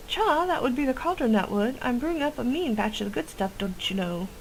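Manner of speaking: a hint of a chatty old witch with a quirky accent; folksy witch voice. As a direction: boast about her brew like a village witch.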